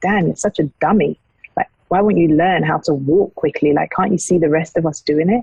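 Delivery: normal talking voice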